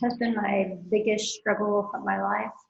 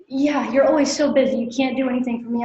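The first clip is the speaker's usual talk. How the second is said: louder, whiny mother's complaint; mocking mom; 3 semitones higher, 6 dB louder than usual. Daughter mimics her demanding mother, louder and whiny. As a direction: throw her nagging back at her. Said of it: "She's like".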